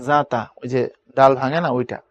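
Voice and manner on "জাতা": জাতা said "zata"; z sound. Shown as a demonstration. Teacher showing the other possible way, জাতা with z. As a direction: begin জাতা on a buzzing z. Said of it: "আবার এভাবেও করতে পারবা".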